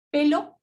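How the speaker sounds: pelo with a clear l sound. Shown as a demonstration. Teacher modelling pelo with a clear l. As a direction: say pelo with the tongue tip for l. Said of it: "el sonido de la L".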